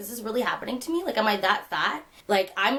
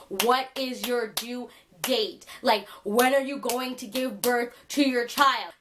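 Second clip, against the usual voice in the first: slow, drawn-out mocking of the woman; slow mock question; slower than usual. Retelling the woman's question to viewers, slow mocking drawl. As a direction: stretch out her question mockingly. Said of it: "Girl came up to me and was like".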